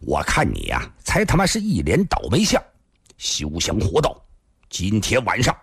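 a touch of rough contempt; mild abusive scolding. Acted. Big man cursing the thin man back, scornful. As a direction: curse him with understated anger. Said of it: "他骂了两句不过瘾".

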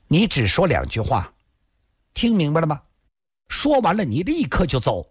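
lightly voiced strict warning; stern young woman. A narrator's reading. Granting two sentences, then leave at once, stern.

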